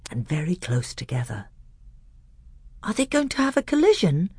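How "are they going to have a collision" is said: high, hushed wonder; awestruck. A narrator's reading. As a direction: ask in breathless awe. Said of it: "he asked in an awestruck voice".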